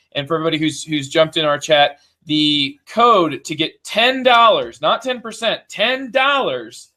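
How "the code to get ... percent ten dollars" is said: pitchman selling a deal, slow and emphatic; hard sell, like a TV ad; infomercial voice. Pretend. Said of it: "You got the infomercial voice on".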